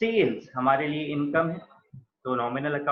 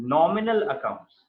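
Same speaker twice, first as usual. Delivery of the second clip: slow dictation; much slower than usual. Shown as a demonstration. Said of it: "nominal accounts का मतलब".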